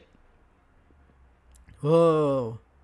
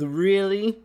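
imitating her giggle; 2 semitones higher than usual. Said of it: "I'm being told".

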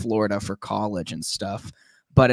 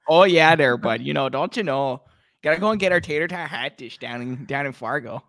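put-on Minnesotan accent. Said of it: "stereotypical Minnesotan accent".

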